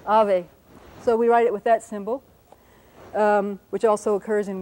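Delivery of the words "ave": "ave" with a two-lip V, louder; firm demonstration of "ave" with a bilabial fricative; Spanish bilabial V. Shown as a demonstration. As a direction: lips barely meet on the V of "ave". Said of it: "It's a bilabial fricative".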